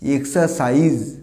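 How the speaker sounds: এক্সারসাইজ as "ek-sa-saiz", no r; corrected z ending. Shown as a demonstration. Teacher correcting learners, এক্সারসাইজ ending in z. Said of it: "স উচ্চারণ করবো না".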